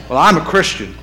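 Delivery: "I'm" pushed up, self-important; smug stress on I'm. Retold or imitated. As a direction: lean on "I'm" like you're showing off. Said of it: "accent on the wrong syllable".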